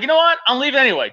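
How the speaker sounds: retelling own dismissal. Retold or imitated. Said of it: "I'm like".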